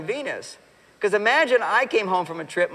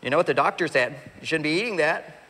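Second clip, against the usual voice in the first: scolding mother; 2 semitones lower than usual. Retold or imitated. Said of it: "you look at him like you're his mother".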